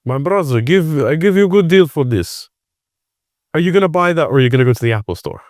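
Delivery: hard-sell a stranger like a street vendor; street seller. Retold or imitated. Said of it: "And he's like".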